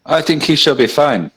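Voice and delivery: badly faked German accent, drifting elsewhere; muddled German accent. Player voicing a character who thinks he'll be fine, muddled German accent. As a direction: attempt a German accent and miss. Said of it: "this guy also has a German accent".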